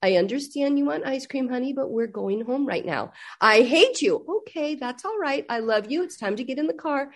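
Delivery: soft, steady, soothing mom voice; quiet reassuring mother; calm mom. Retold or imitated. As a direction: gently hold the line with a tantrum kid. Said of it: "And my daughter's just very calm".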